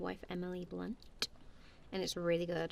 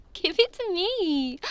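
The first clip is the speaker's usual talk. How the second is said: mock demand; 9 semitones higher, 10 dB louder, slower than usual.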